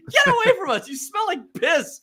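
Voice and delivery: high, laughing get away; teasing the soaked friend, high; laughing jeer. Retold or imitated. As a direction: shove him off through laughter. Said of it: "We were like".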